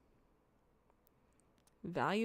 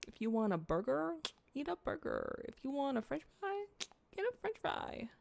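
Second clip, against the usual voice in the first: mock preaching; 6 semitones higher than usual. Mock lecture, rising pitch.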